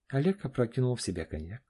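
usual speaking voice

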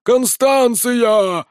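drawn-out high yelled name; hysterical hoarse crowd cry. A narrator's reading. Soldiers crying out for their heroine, drawn-out yell. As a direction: stretch the name out like a crazed soldier's chant. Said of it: "с истеричными сиплыми или бешеными криками".

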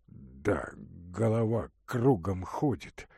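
put-on a sick young man answering weakly; Ordynov's voice. Ordynov dizzy.

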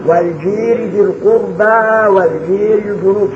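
slow recitation, الجار as الجير; imala. Shown as a demonstration. Teacher models the taqlil reading for the class. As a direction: lean الجار toward e. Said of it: "ثم تقليل الجار".

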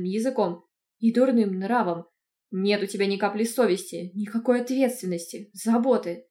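loud scolding uncle. Acted. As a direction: chew her out loudly for her shameless tongue. Angry uncle scolding niece. (громко отчитывает)

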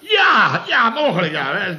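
loud, high-pitched huffy interruption; irritated cut-in. Acted. Chef bristling at Paul's criticism, high and irritated. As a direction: burst in, voice jumping up.

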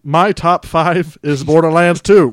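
slow, loud botched robot voice. Pretend. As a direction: flub a robot reading. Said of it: "read 'em in your robot voice".

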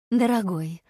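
calling out. Acted. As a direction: call out to him, «Дорогой». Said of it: "позвала Аррера Гивенса".

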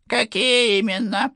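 put-on high, pushy old general; stern general. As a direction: press him like a suspicious old officer. General presses further. (напористый голос генерала)

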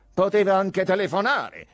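high, loud indignant cry; shouted protest. A narrator's reading. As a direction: shout the reproach. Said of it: "gridarono Denishkin".

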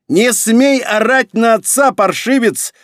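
loud, high, slowed-down furious yell; angry shout. A narrator's reading. Emperor rebuking his son for yelling, angry shout. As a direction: shout the rebuke, leaning on every word. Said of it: "выкрикнул он вслед за сыном".

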